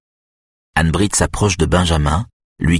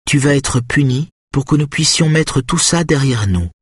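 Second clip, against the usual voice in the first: lightly announced punishment, pitched up; ton léger et neutre; 7 semitones higher than usual. A narrator's reading. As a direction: hand down the sentence lightly. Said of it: "d'un ton léger et neutre". (annonce légère, un peu haute)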